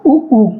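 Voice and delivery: उ short then उ long, lips rounded; lip vowels. Shown as a demonstration. Teacher showing students rounded-lip vowels. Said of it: "ओष्ठ".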